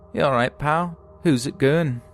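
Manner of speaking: put-on high, loud Edinburgh accent; Scottish accent. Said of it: "with an Edinburgh accent".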